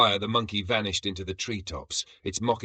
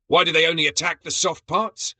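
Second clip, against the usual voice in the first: high, loud indignant whine; frantic complaint; 9 semitones higher, 6 dB louder than usual. A narrator's reading. Brug scratching at his joints, frantic and high. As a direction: whine it while hopping in pain.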